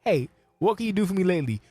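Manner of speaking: high, far-off cartoonish voice of a boss who doesn't care; mock blunt boss. To people with problems, a high mocking don't-care voice. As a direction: squeak out the don't-care attitude in a put-on high voice. Acting out his blunt stance.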